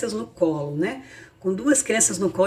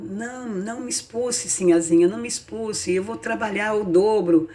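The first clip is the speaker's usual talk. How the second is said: imploring; 2 semitones higher than usual. Acted. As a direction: plead in a small, hushed voice. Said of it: "a moça implorou".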